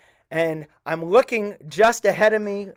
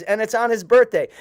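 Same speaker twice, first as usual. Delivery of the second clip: a touch higher and louder, pleased to add news; mildly excited; 5 semitones higher, 5 dB louder than usual. Retold or imitated. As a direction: cousin announcing it's his birthday, a little excited. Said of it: "And my cousin says".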